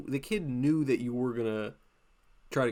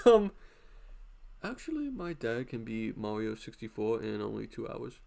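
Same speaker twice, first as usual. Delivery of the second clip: put-on know-it-all kid, pitched up on um then nasal drone; nerdy kid voice. Schoolkid bragging about his dad's Mario record, smug kid voice. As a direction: correct everyone like a smug schoolkid. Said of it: "That voice is just too fucking funny".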